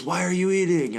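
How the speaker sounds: high-pitched wife quote; indignant wife. Acted. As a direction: play the wife demanding an answer, pitch up. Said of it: "And she goes".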